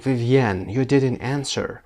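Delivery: mildly anxious demonstration; understated anxiety, as a teacher's example. Shown as a demonstration. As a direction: say it with a touch of worry. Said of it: "با حالت اضطراب باید بگید anxiously رو".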